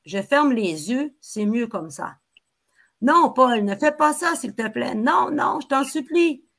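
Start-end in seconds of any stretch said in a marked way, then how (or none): 3.0-6.4 pleading scream. Acted. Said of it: "maman qui crie, qui hurle".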